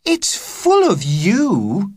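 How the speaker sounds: put-on excited young girl, high; girl crying out. A narrator's reading. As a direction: gush it out eagerly. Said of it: "cried Agnes".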